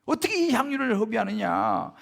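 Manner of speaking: mock outrage at a waste; angry protest. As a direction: imitate an angry onlooker objecting loudly. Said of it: "화를 내면서 서로 막 이야기하는 거예요".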